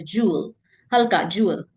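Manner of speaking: ज्वेल with a light uh sound before the l; pronunciation demo. Shown as a demonstration. Teacher modelling ज्वेल for learners. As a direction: say ज्वेल as "jew-uhl", gently. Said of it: "ल से पहले थोड़ा अ sound आ रहा है".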